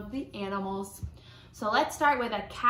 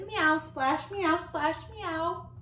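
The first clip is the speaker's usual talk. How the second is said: meowing cat; 6 semitones higher, much slower than usual. Acted. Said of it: "Cat says".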